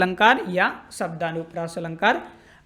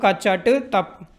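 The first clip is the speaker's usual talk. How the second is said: slowly spaced क च ट त प; slow recitation; much slower than usual. Shown as a demonstration. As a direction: say each sound apart. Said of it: "ऐसे एक दो बार बोलो". (हर वर्ण अलग-अलग धीरे)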